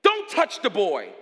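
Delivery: sudden high, loud shout from heaven; explosive, high-pitched command; angel's shout. Acted. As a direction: cry out to halt him at once. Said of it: "the angel of God says from heaven".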